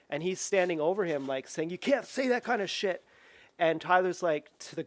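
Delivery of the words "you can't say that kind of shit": high, strained mock telling-off; imitated stern scolding. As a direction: act out a guard confronting someone. Imitating huge guard standing over him.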